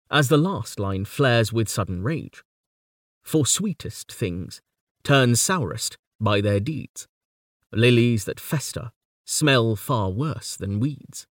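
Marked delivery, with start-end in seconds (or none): 3.2-4.6 slow, deliberate, with "For" falling; slow poem reading. Acted. Lecturer reads the final couplet slowly. 5.0-11.3 slow, deliberate reading building to Lilies; slow poem reading. Acted. Lecturer reads the flaring last line slowly.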